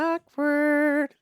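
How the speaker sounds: high, loud teasing drawl; mock awkward. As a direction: tease the awkward moment. Mocking reaction to embarrassment.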